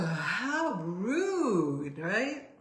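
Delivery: real tears breaking into the words; surprised by her own tears; crying. Real, not acted. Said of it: "do you guys see I'm, like, crying over here".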